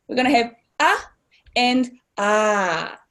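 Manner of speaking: ah short, then ah held long for the macron; short and long a vowels. Shown as a demonstration. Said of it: "It's a long sound".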